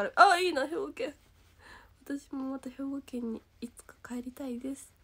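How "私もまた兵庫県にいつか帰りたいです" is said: wistful whisper. Real, not acted. Wistful aside about going home.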